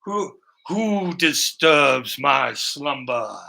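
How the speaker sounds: slow ancient tomb voice; dusty mummy rasp. Acted. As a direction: drag it out like a woken mummy. Who's gray?.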